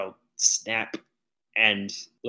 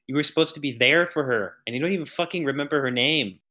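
angry rant; 4 semitones higher, 4 dB louder than usual. Acted. Character berating cult at funeral.

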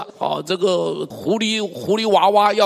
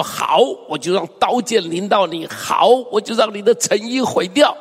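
mock-fierce declaration, rising higher; fierce threat; 4 semitones higher than usual. Preacher voices God threatening the city, fiercely. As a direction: pronounce judgment with punched words. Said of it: "前面是说得很凶".

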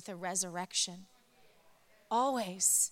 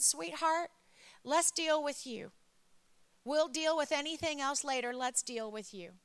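retold motherly reassurance; 5 semitones higher than usual. Mother soothes daughter, retold.

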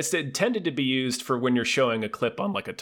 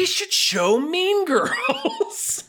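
laughing; much slower than usual. Real, not acted. Excited suggestion, laughing.

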